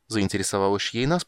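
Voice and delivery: plain reading voice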